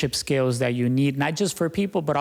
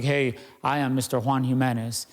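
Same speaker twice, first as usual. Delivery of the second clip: unattractive self-introduction. Shown as a demonstration. Coach shows how people wrongly introduce themselves, unappealingly. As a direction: introduce yourself with no appeal at all. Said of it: "that's not attractive".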